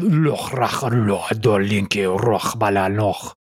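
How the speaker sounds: low, slow mock Dothraki babble; mock Dothraki cat talk. Shown as a demonstration. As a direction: growl out a fake Dothraki pet name. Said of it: "a little Dothraki".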